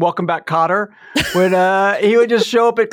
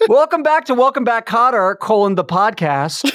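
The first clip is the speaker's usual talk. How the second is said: mock podcast intro; 4 semitones higher than usual. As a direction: pretend to host a spoof podcast, amused.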